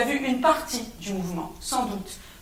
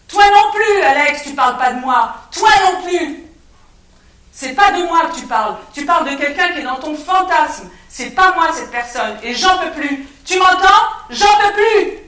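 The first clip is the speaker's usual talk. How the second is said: loud, high desperate yelling; shouting through the door; 6 semitones higher, 11 dB louder than usual. Acted. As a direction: scream it at the closed door, at the end of your rope. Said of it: "j'ai crié".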